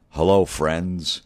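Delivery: slow, lightly voiced smooth TV host; a hint of a syrupy sportscaster opening; mock announcer greeting. Mocking Jim Nantz's broadcast greeting.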